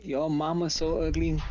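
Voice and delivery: slow half-hearted Texan drawl on "your mama so ugly"; tentative Texan accent. Shown as a demonstration. Friend asks for a Texan accent, slow hesitant Texan try. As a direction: stretch "mama" and "ugly" slowly, a timid stab at Texan. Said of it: "you can just do a Texan accent".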